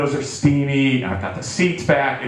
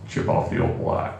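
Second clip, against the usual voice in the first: laughing; 5 dB quieter than usual. Retold or imitated. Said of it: "And he says".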